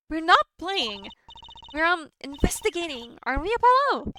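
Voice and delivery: high, protesting character voice; indignant game character. Acted. Protesting to the officer about playing, indignant and high. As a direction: pitch it up and insist to the officer.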